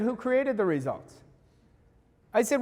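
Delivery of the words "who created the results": retold calm question, softer. To a frustrated client, calmly and softly questioning. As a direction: ask it quietly and evenly. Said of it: "And I very calmly said".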